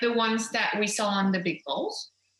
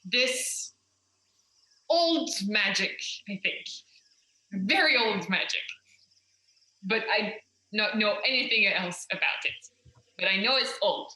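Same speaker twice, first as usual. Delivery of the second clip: very serious. Acted. Adventurer warns companion about old magic before flight, very serious. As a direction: say it gravely, dwelling on the words. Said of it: "look at you very seriously".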